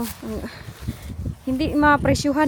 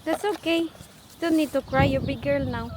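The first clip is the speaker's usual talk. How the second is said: soothing; 3 dB quieter than usual. Real, not acted. Parent telling a crying girl it's okay, soothing.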